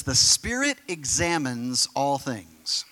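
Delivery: slow, measured Bible reading; scripture reading. Real, not acted. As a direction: read the verse out slowly and deliberately. Reads scripture aloud to congregation.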